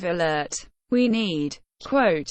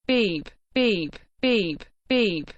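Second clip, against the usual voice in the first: honking noise; slower than usual. Acted. Vanessa honks at Barry, mock horn beeps. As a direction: beep like a car horn. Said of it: "Vanessa pretends to honk the horn".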